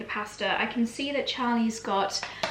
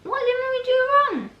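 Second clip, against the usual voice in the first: higher, faster pet-talk whine; high baby talk to dog; 14 semitones higher, 3 dB louder, faster than usual. Acted. Mum asking the dog Dexy, in high baby talk. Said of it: "What do you think, Dexy".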